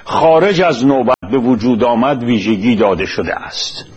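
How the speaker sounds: measured, formal reading of a prepared text; formal lecture-script delivery; formal read-aloud. Acted. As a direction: read it out deliberately in careful literary Persian.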